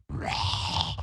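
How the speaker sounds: low whispered demon growl; mock demon growl. Host imitating Ratcliffe demoning out, unvoiced growl. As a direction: growl it like a demon under your breath. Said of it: "leans back and goes".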